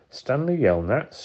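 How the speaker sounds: high, slow call across the lake. A narrator's reading. Lawyer calling to Stanley across the lake, loud and slow. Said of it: "she called".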